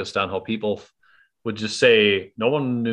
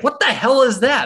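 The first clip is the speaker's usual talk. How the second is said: high, loud mock disbelief; put-on incredulous outcry; imitated baffled reaction; 5 dB louder than usual. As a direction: exclaim it like a bewildered audience. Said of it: "and everybody's like".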